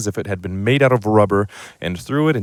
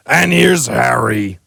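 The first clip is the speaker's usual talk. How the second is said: slow, fond greeting; pleased giant; 3 semitones higher, 4 dB louder, slower than usual. Acted. The giant greeting Harry, slow and pleased. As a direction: savour the name. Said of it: "said the giant".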